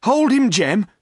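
high, loud command; urgent order. A narrator's reading. Landlord to the poacher near the door, urgent order.

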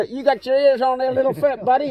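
loud, high mock Southern American accent. Quoting Dukes of Hazzard, mock American accent. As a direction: put on a hammy American sheriff's voice. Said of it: "sometimes talk American".

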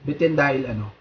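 speaking between bites; words slurred by food; mouth full, chewing. Real, not acted. Seen 1: forks food into mouth at +0.3, +6.2, +7.3, and chews between.

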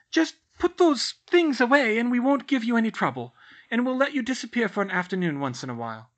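aunt hastily bargaining with her nephew, anxious; anxious pleading. A narrator's reading. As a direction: hurry to placate him. Frightened aunt bargains quickly.

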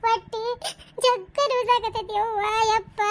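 hammed-up bellyache moan; fake pain moan. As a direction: drag out a pretend ache. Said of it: "very good".

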